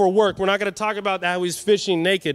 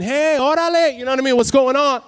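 loud, higher, playful Latino greeting; Latino Jesus; 5 semitones higher, 5 dB louder than usual. Acted. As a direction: call out like a jovial Latino guy. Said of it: "because I'm Latino".

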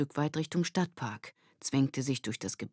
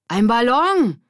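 high, loud call out; excited call; 8 semitones higher, 10 dB louder, slower than usual. Acted. Melvin calling out at spotting the balloon. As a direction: point it out excitedly. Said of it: "rief Melvin plötzlich".

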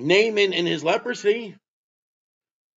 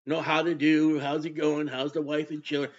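lightly mimicked pleasantries, soft and low; mock small talk; 5 semitones lower, 4 dB quieter than usual. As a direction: rattle off idle chitchat, dropped in volume. Mimicking small talk Jesus skipped.

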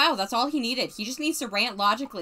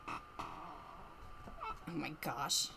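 drawn-out groan; 9 semitones lower, 16 dB quieter, much slower than usual. Real, not acted. Overwhelmed sigh.

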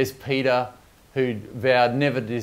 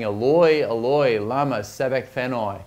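retold loud cry, only partly raised; 3 dB louder than usual. Jesus on the cross calls to God, a half-raised cry. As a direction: call out the first words louder, then ease off. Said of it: "cries out in a loud voice".

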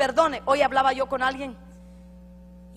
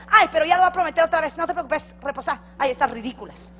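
fast, louder mocking girl; scoffing friend; 4 semitones higher, 7 dB louder, faster than usual. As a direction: rush it like a dismissive friend. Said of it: "la otra decía".

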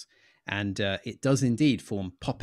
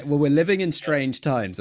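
laughing; 6 semitones higher, 8 dB louder than usual. Real, not acted. Laughing after the swearing joke.

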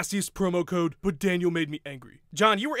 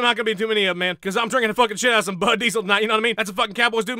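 lightly voiced rowdy cowboy, fast and boastful; cocky cowboy fighter; 3 semitones higher, 4 dB louder, much faster than usual. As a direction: brag like a beer-swilling cowboy, rattling it off.

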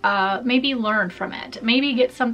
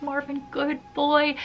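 higher, slow pet-praising voice; fond praise; 5 semitones higher, 3 dB quieter than usual. Retold or imitated. Owner thanking the dog that woke her, fond praise. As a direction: coo it as to a dog.

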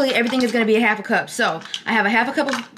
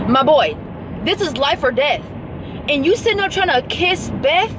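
higher, exasperated, the last line slow; mock outrage at a movie; 6 semitones higher than usual. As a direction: scold the movie hero. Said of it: "I was getting so mad".

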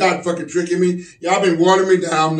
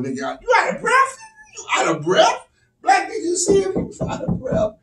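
mock incredulity. Ribbing winded boy, incredulous.

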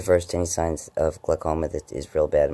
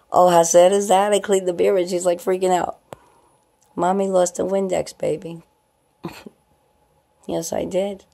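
put-on much higher baby talk to the pet; cooing pet voice; 12 semitones higher, 6 dB louder than usual. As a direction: tease the pet sweetly. Talking to pet about mirrors.

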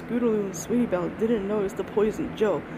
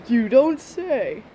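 slow, dry, louder deadpan; sarcastic; 2 semitones higher, 5 dB louder, much slower than usual. Acted. Pony mocks a boastful stranger, slow sarcastic drawl. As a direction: drag it out, unimpressed.

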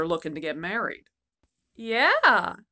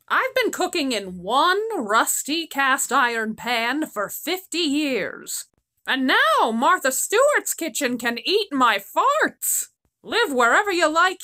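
put-on old crone; 5 semitones higher, 3 dB louder than usual. Old crone rants about pan.

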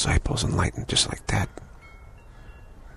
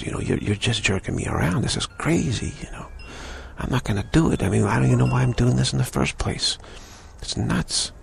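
mock-furious outburst, pitched higher; a retold disciple losing patience, higher voice; 6 semitones higher than usual. Worn-out disciple turns on the guru, higher mock fury. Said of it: "get furious at the guru".

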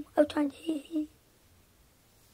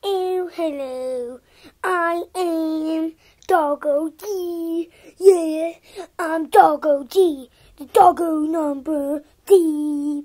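slow character voice; slower than usual. Pretend. Introduces toy character Doggo G.

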